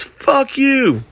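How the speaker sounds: very high, shrill-pitched mock yell; retold yell. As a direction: hurl it from behind a hidden face. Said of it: "paper covering his face yells".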